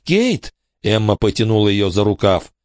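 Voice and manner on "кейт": high, urgent calling of a name. Acted. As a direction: call her name sharply to get her attention. Emma tugging at Kate's sleeve.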